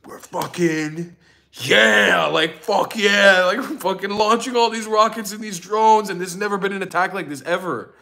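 lightly voiced boastful commander; gloating mock cheer from Iran's side; mock gloating IRGC. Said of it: "it was like".

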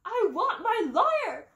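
high, slow squeaky demand; high squeak with a laugh in it. A narrator's reading. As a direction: squeak it out like a panicked mouse. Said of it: "another one squeaked".

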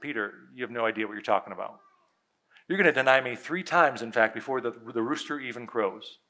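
low, soft voicing of a grave warning; sober prediction. Voices Jesus's sober prediction to Peter.

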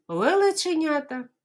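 teacher says Лелеченята fast; quickly. Shown as a demonstration. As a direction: rattle it off quickly. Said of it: "А тепер швиденько".

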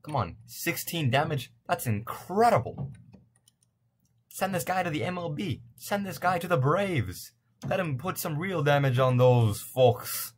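high, drawn-out hammed-up exclaiming; silly put-on voice. Gamer hyping a batter for the Braves, goofy high voice. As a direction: proclaim it slowly in a high goofy voice. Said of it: "I don't know what kind of voice that is".

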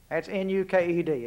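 N U K E D letter by letter, each letter apart; spelled out letters. Shown as a demonstration. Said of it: "if you can't understand my Texas accent".

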